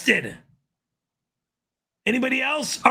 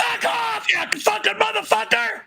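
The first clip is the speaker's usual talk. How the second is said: shrill screaming rant, much higher; swearing tirade; 9 semitones higher than usual. Acted. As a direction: scream the threats in a high, furious voice. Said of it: "you're screaming like a little girl".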